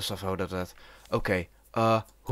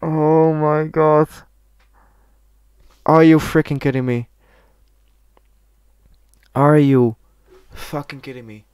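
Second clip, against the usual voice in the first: loud, high exasperated yell; outraged disbelief; 5 semitones higher, 9 dB louder than usual. Real, not acted. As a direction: shout it in sheer disbelief after losing. Outraged after dying in game.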